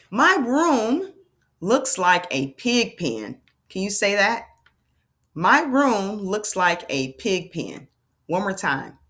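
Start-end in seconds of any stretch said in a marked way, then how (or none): 0.1-3.4 put-on slow, word-by-word reading for children; deliberate teacher's read-aloud; model reading. Shown as a demonstration. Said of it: "read with fluency". 5.3-7.9 slow, deliberate word-by-word reading; measured teacher's read-aloud, words held apart; model reading. Shown as a demonstration. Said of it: "read with fluency".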